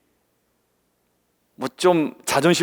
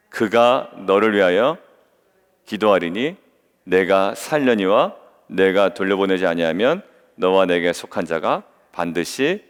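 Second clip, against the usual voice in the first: low, slow, measured Bible reading; low-pitched recitation for reading together; scripture reading aloud; 7 semitones lower, slower than usual. Acted. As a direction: lead the congregation in reading, slowly.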